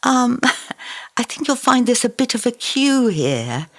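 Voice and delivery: a hint of a sickly little local; sickly Luton voice. A watcher telling Arkasha about the queue, faint sickly voice. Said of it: "sickly little Luton voice".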